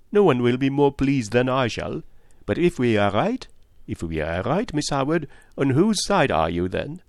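probing detective, lightly voiced; Poirot. Detective asks a woman whose side she takes, probing. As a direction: challenge the listener to choose.

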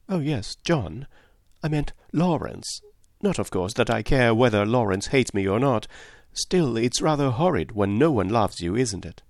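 a hint of a lively young girl; young Cynthia. Cynthia voiced by narrator.

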